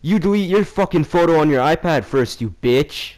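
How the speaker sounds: acted aggressive demand; retold aggressive retort. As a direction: re-enact a mean snap back. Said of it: "being all mean and aggressive".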